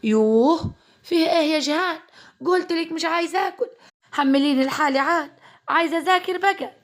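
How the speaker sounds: high, tearful, exasperated complaint; upset outburst. Acted. Girl snaps at her cousin through the door, high and tearful. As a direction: near tears, wanting to be left alone.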